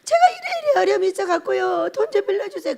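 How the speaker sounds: half-crying plea; mock teary pleading. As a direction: whimper for a loan. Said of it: "왜?".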